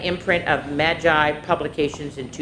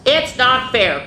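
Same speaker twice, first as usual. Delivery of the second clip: cried; 6 semitones higher, 4 dB louder, slower than usual. Acted. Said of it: "cried Hedgehog".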